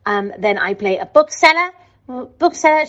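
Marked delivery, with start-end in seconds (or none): 2.1-2.9 put-on higher-pitched Liverpool accent. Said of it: "she's from Liverpool".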